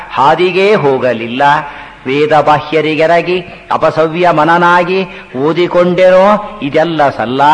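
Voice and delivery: slow, measured verse with drawn-out words; devotional verse recitation. Acted. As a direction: recite it slowly as a devotional poem.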